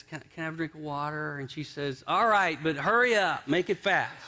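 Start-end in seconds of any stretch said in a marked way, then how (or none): 0.0-1.4 softer, quick plea, acted out; mild begging. Worn-down husband pleading with his wife, mildly begging. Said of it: "finally he's begging". 2.1-4.1 grudging impatience. Acted. Wife giving in to begging husband, acted grudging impatience.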